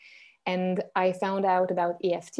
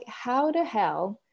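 incredulous question; 3 semitones higher, 3 dB louder than usual. Retold or imitated. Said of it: "some people are like".

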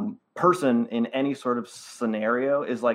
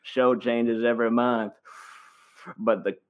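Matthew McConaughey impression. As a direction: play a laid-back movie star coaxing a young host. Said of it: "debate yourself ... as Matthew McConaughey".

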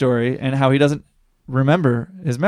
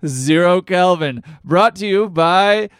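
lightly voiced Gary selling crackers; gurgling fish man croak; 3 semitones higher than usual. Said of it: "Hi, this is Gary".

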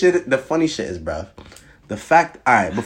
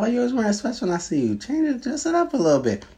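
higher-pitched, quick retold nagging; retold complaint; 11 semitones higher, 4 dB quieter than usual. Telling a girl to dress up, retold higher complaint. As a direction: imitate your own past nagging, pitched up. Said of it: "I was like".

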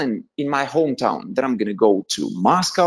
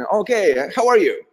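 imitated barista greeting; 6 semitones higher than usual.

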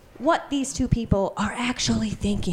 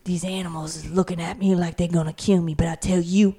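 Samuel L. Jackson. Acted. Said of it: "Samuel L. Jackson".

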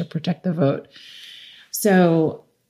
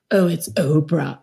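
lightly voiced teasing teen; mocking teenager. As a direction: imitate a kid making fun of mom. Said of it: "my kids would make fun of me".

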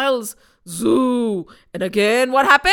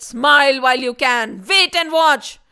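villain taunt; 4 dB louder than usual. Acted. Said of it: "Vishwarath said".

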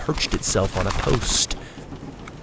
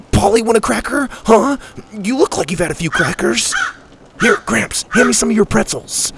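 put-on high-pitched boy sweet-talking a bird; coaxing young Sawyer; 10 semitones higher than usual. Sawyer offering the noisy crow crackers, high and coaxing. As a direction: coax it in a high, eager voice.

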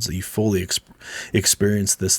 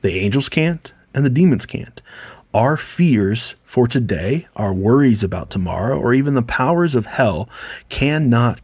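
booming reading; 2 semitones higher than usual. Shown as a demonstration. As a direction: preach it out to the Romans. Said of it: "with a big booming voice".

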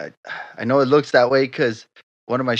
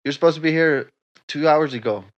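scolding boss; 4 semitones higher than usual. Acted. Role swap, new boss scolds.

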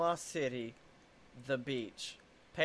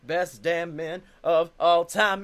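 announcer voice; 3 dB louder than usual. Pretend. Mock announcer hype continues.

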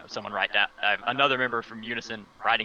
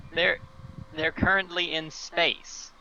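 higher and slow, spelling out the absurdity; stunned; 6 semitones higher, slower than usual. Acted. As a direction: let the disbelief drag each word. Stunned at teammates' news.

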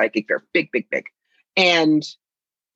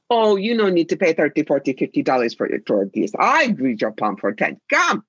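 broken English hawker's pitch, rising on come; lightly put-on fortune-teller accent luring a customer; fake gypsy accent. Fake fortune teller hooking a passer-by at the fair, in a mock accent. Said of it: "you do bad accent".

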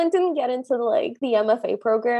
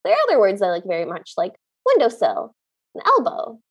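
put-on quirky old lady; 5 semitones lower than usual. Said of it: "keeps repeating it and says".

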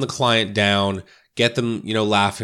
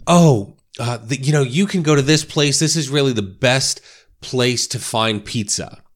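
imitating a delighted reply, higher and louder at the start; suddenly excited; 4 semitones higher, 3 dB louder than usual. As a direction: burst in eagerly on a high "Oh".

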